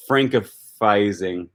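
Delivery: francifying said slowly, each syllable drawn out; coined word. Shown as a demonstration. To the viewers, testing a made-up word francifying slowly. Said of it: "Is that how you would say that?".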